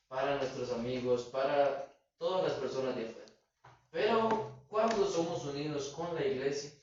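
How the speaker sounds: rising preacher's exhortation; preaching to the congregation. Acted. Preacher urging his congregation about the church, rising exhortation. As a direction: press the point to the brethren. Preacher drives home the lesson.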